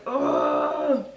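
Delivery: high drawn-out groan; exasperated ugh. Retold or imitated. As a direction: let out a long high "ugh". Freaking out in the car.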